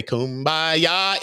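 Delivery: put-on a light English accent on Kumbaya; mild English-accented kumbaya. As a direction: say it like a gentle Brit. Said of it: "in the English voice".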